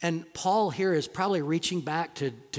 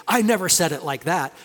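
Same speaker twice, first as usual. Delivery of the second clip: put-on protesting kid; 6 dB louder than usual. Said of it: "my kids would say".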